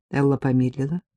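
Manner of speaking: ordinary delivery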